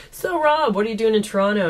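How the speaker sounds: high, chummy mock of Scott; mock casual husband. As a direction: act like an old buddy asking. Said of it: "Scott just figured they were on a first name basis".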